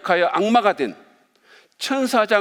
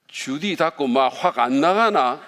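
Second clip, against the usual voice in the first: put-on slow Gyeongsang-accented rebuke; joking Gyeongsang version of a stern command; Gyeongsang dialect; 3 semitones lower, slower than usual. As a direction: order them out in a drawn-out Gyeongsang dialect. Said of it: "경상도 버전으로 이렇게".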